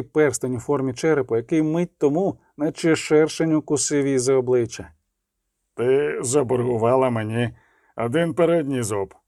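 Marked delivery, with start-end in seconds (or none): 5.7-9.1 cold. A narrator's reading. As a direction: threaten her coldly, without heat. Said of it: "сказав він холодно".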